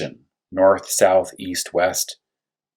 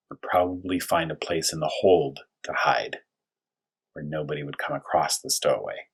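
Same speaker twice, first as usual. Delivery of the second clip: hushed whisper; 5 semitones lower, 6 dB quieter than usual. Acted. Explaining hiding, hushed voice.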